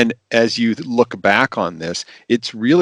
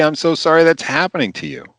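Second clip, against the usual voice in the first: empathetic apology; 7 semitones higher than usual. Shown as a demonstration. Models empathy to an upset patient.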